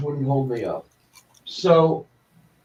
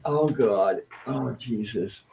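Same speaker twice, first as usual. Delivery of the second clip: quiet groans of pain; pained groaning; 3 semitones lower, 5 dB quieter, slower than usual. Real, not acted. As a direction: moan it, hurting. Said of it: "in agony".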